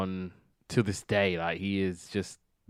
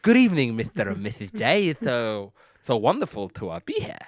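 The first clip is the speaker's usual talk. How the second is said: Bentley impression. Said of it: "with his weird accent of his".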